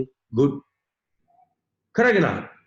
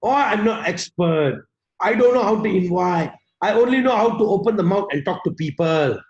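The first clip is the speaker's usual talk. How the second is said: self-doubting mindset; 3 semitones lower than usual. Acted. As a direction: imitate someone doubting themselves. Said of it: "the mindset is what".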